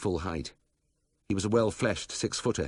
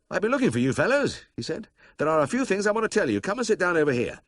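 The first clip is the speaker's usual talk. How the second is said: brisk captain; 12 semitones higher, 6 dB louder than usual. A narrator's reading. Captain Birch hails them.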